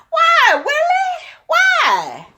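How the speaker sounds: high, slow mock-anguished shout; hammed-up shout of betrayal; mock anguished cry. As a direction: wail it like a scorned wife in a soap. Mock lament over twelve affairs.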